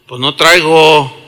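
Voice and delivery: slow, unbudging dad's answer; father's refusal. Retold or imitated. Preacher imitates his father turning him down, unmoved. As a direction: drag out the refusal, no rise in pitch. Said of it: "Así me contestaba".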